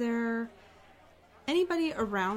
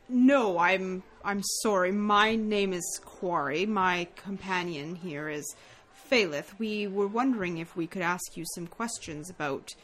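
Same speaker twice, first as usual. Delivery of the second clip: lightly voiced, courteous, measured knight; formal paladin; 4 semitones lower than usual. Paladin Quarry gently questions the grieving mother, formal and courteous. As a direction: speak with careful, proper politeness.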